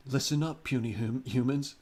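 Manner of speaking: loud, booming overlord proclamation; booming arrogant alien overlord. Retold or imitated. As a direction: announce it like an arrogant alien conqueror. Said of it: "he might say something like".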